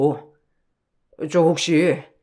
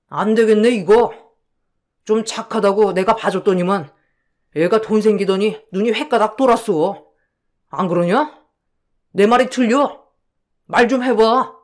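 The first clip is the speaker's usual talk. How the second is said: rising irritation; 3 semitones higher than usual. Acted. Con man turning on the husband who refused him, heated. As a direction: pitch climbing, pushier with every line. Friend turns nasty when refused.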